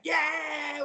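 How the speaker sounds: high mock cheer; a high-pitched imitation of a cheering crowd; imitated crowd cheer.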